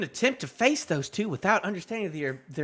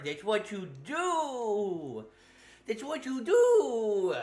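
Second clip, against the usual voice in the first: mocking; 3 semitones higher, much slower than usual. Mocking repeat, slow.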